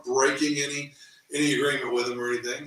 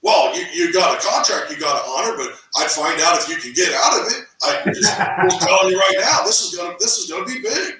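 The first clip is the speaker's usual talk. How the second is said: fired-up coach; 6 semitones higher, 6 dB louder than usual. Retold or imitated. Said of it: "He goes".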